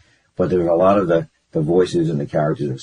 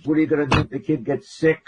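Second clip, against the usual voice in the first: higher-pitched imitation of a fretting dad; mock parental worry; worried father; 7 semitones higher than usual. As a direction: blurt it like an alarmed father. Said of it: "My father goes".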